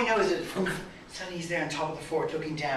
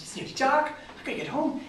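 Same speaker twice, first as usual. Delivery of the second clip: startled alarm; 13 semitones higher, 5 dB louder than usual. Acted. Brian startled by nightfall.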